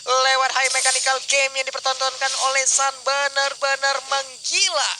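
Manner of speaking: fighting game announcer. Real, not acted. Co-caster hypes the play.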